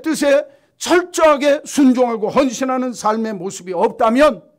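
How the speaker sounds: loud, high fervent sermon voice; full-force preaching. Acted. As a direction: thunder it from the pulpit.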